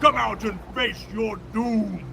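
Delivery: high, drawn-out battle yell; yelled challenge. Acted. Attacking bodyguard taunts his foes, yelling high and drawn out. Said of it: "One of them yells out".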